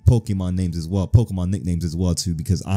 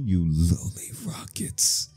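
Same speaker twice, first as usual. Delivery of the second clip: slow, soft whisper; hushed mock contempt; whispered insult; 3 semitones lower, 6 dB quieter, much slower than usual. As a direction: whisper it drawn out, under the breath. Voices character muttering at the thieves.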